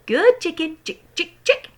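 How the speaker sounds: sweet coaxing chicken call. A narrator's reading. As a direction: call the hen gently. George coaxing the hen.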